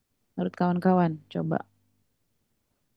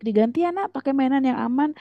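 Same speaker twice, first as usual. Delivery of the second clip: lightly voiced coaxing parent, higher pitch; 4 semitones higher, faster than usual. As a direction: gently talk a child round, mock parent. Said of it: "Anda bujuk".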